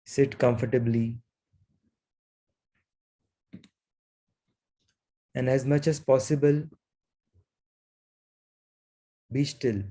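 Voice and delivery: unhurried meditation guidance with long pauses; guided meditation. Real, not acted. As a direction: guide them gently into stillness, leaving long silences.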